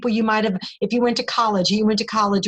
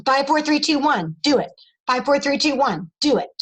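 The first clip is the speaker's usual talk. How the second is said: countdown; 3 semitones higher than usual. Shown as a demonstration. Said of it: "Reach out to them immediately".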